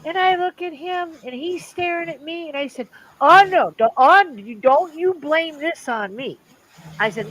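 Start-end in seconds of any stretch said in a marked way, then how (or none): 3.2-6.4 high, loud mock indignation; playful protest. Teasing dad, high and loud mock-indignant protest. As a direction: throw the blame right back, hammed up.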